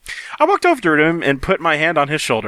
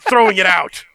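hammed-up angry reading; 4 semitones higher than usual. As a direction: read it like an overwrought teen drama.

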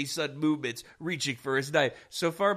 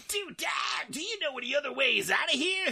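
calling through a door; 9 semitones higher than usual. Acted. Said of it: "he called through the front door".

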